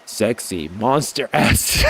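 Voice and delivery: slow hammed-up shout; mock-epic slow shout; mock dramatic shout. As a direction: belt it out slowly for laughs. Reading a funny line dramatically.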